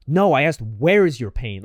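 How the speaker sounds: slow, pointed correction on "where"; imitating a belittling doctor, drawing out "where is your pain"; condescending doctor. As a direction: correct them as if they're dumb. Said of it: "he made me feel dumb".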